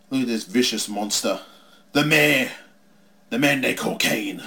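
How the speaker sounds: slow, drawn-out ringside commentary; measured play-by-play on a villain; mock wrestling commentary. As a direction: call the match, stretching out the big words.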